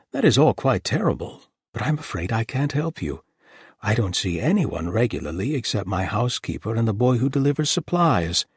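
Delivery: high, eager nervous gentleman; a flustered, eager host; excitable host. Acted. Thomas voiced in story.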